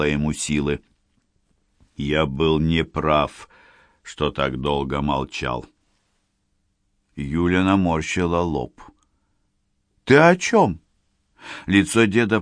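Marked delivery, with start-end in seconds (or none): 2.0-5.7 weak confession. Acted. Grandfather confessing weakly. 10.0-10.8 put-on high, questioning girl's voice; puzzled young woman. Yulia puzzled.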